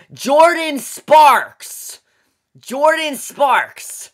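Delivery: hammed-up star introduction; mock announcer. Mock announcing a star's name.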